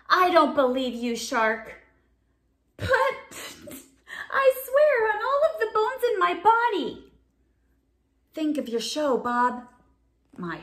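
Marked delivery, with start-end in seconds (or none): 0.1-7.1 doubtful then swearing shark. Acted.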